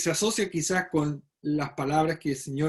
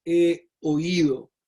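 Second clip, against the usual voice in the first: slow, weighty he oído; 4 dB louder, much slower than usual. Shown as a demonstration. Teaching the congregation, stretches out "he oído" slowly. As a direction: draw out "he oído" slowly, stressing "he". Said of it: "en la expresión es".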